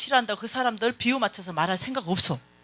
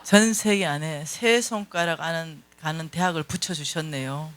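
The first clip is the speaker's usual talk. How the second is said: slow retold boast; 4 semitones lower, slower than usual. Quotes friend boasting of son's college.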